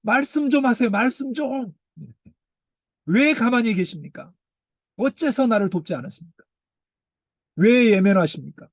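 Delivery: high, pushy pleading questions; cheeky demand. Acted. A sufferer boldly questioning God's silence, high and insistent. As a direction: press God like an impatient child. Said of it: "이렇게 발칙하게 이야기를 합니다".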